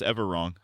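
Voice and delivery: "Everwrong" for the song title, R for L. Shown as a demonstration. Streamer names a song heard driving, "Everwrong" with R replacing L. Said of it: "replacing my L's with R's".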